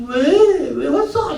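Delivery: high-pitched, irritated adolescent outburst; annoyed teen yelling. Acted. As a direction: squeal it like a son whose dad intrudes. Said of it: "막 이렇게 뭐 소리치죠". (짜증 내며 소리치는 사춘기 아들)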